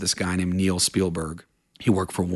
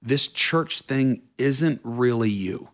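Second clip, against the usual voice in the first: high, slow, sing-song mock concern; a hint of fretting family pleading; 10 semitones higher, much slower than usual. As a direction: lightly imitate worried relatives. Family urging him to quit church.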